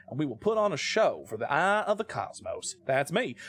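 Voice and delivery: badly faked Italian accent; hammed-up Italian accent; Brad Pitt. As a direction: do a clumsy American attempt at Italian. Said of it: "sound like Brad Pitt trying to do an Italian accent".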